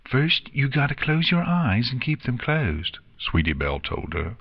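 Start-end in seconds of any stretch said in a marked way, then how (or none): 0.1-3.0 instructing filly. A narrator's reading. Filly instructs friend in story.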